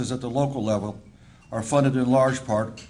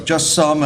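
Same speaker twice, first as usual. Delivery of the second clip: some leaned on, louder; stress on some; 3 semitones higher, 6 dB louder than usual. Real, not acted. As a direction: punch the word some. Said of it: "and I emphasize the word some".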